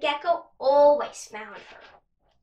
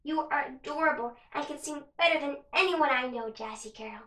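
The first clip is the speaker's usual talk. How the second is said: tender motherly voice; 4 dB quieter than usual. Acted. Mother comforts daughter softly.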